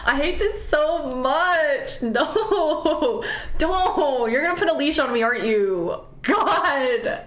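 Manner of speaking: slow, laughing pretend whine; laughing mock plea. Voicing the caged friend, slow laughing plea. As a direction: giggle through begging to be let out.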